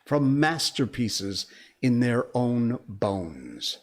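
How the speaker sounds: poem reading. Acted. Host reading a viewer's poem to the chat, measured. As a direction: read the poem gently, letting each line land.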